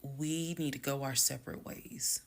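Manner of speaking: composed, partly hushed breakup; calm. Retold or imitated. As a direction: say it evenly, no drama. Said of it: "The way that I am talking to you all".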